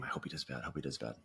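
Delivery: low, hushed bitter mutter; quiet jealous thought; muttered resentment. Retold or imitated.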